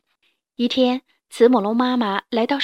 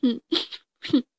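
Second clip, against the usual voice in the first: sobbing. Acted. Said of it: "慈母龙妈妈听到了哭声".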